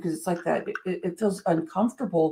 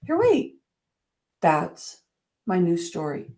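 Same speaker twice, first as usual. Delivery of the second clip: sudden realization. Retold or imitated. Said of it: "and I was like".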